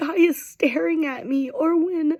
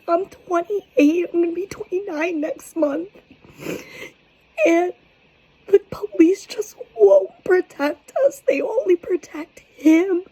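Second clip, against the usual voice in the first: fighting tears; 6 semitones higher, 5 dB louder than usual. Real, not acted. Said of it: "I'm trying so hard not to cry".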